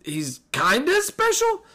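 grudging admission. Real, not acted. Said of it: "By the way".

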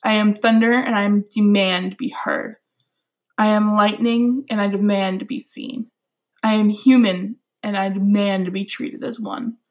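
poem reading. Acted. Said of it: "All right, my poem goes".

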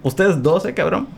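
picking a team. Pretend. Jesus picking his team.

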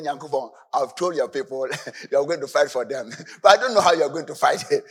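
laughing through a worried prayer; half-joking plea to God; amused mock confession; laughing Moses. Moses confides fear to God.

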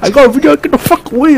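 high-pitched mimicry of a yell; mock shout. Friend replaying her rant, high mock shout. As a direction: parody her shouted warning. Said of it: "like, the way I shouted".

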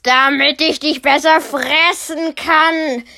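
verstellte Bärenstimme, etwas lauter, genüsslich; Bär enthüllt sich. Acted. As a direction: betone genüsslich besser. (der Bär verrät sich, leicht lauter)

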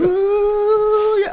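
high stifled whoop; whisper scream. Real, not acted. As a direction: whoop without full voice. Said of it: "your whisper scream that you always do".

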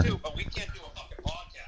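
whispered under the breath; hushed, unvoiced aside; muttered aside. Real, not acted.

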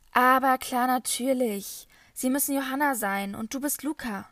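an opera singer welcoming guests loudly; hearty tenor welcome. A narrator's reading. Rudolf begrüßt überrascht die Gäste. (schallend laute, höhere Begrüßung des Operntenors)

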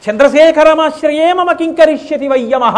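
defiant proclamation. Acted. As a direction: hurl the line at Yama in triumph. Boy defies Yama with verse. (యముడిని సవాలు చేస్తూ, గట్టిగా, ఎత్తైన స్వరంతో)

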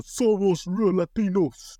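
slow, drawn-out show intro call; announcer voice. Retold or imitated. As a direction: announce the show name slowly. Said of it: "I thought we were gonna go".

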